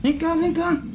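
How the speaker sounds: high-pitched beckoning; coaxing call. Real, not acted. Nephew calling his reluctant aunt over, high coaxing call.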